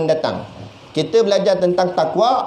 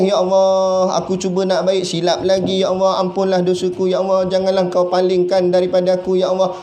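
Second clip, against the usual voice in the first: mock-tearful plea to Allah, barely raised; rintihan doa. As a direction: plead in one long, even, unbroken stream. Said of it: "Nangis-nangis". (merintih memohon ampun, lakonan ringan)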